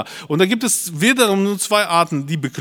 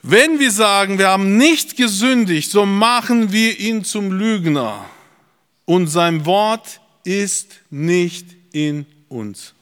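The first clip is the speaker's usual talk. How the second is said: raised opening, slowing to measured words; solemn scripture declamation; 4 semitones higher, 4 dB louder, slower than usual. Acted. Preacher reads the verse on making God a liar, solemn declamation. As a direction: declaim the verse, then space out the last words.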